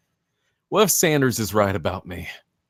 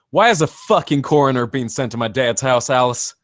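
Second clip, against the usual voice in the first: higher, louder, furious demand; angry outburst; 5 semitones higher, 6 dB louder than usual. Acted. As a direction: lash out at her in panic and anger. Learns coroner sent to dad's.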